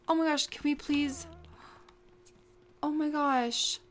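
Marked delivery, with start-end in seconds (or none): none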